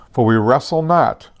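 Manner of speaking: whispered with weight on not; hushed, not stressed and falling. Shown as a demonstration. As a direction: lean hard on "not" in "For we wrestle not". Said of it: "I stress the word "not".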